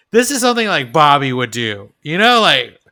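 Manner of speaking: mock Dale. Friend mimics Dale's odd question, fast and excited. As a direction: rush it out like Dale with a wild idea.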